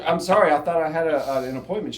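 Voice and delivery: loud, high, halting excuse; retold flustered apology. Agent apologizing to the occupant for walking in, flustered. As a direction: stumble through an embarrassed explanation.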